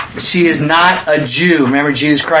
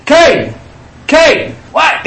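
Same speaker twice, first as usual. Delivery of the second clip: calling out; 11 semitones higher, much slower than usual. Retold or imitated. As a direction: call the kid in from his play. Calling son from another room.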